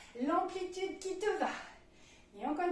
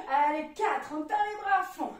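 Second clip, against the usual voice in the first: loud coaching count; 6 dB louder than usual. Real, not acted. Coach counting reps loudly.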